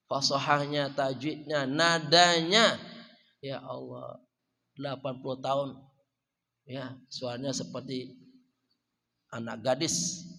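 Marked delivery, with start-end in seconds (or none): 3.4-10.2 murmured amazement, trailing softly; hushed awe. Real, not acted. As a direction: drop the voice in quiet wonder. Marvelling at elderly woman's recitation.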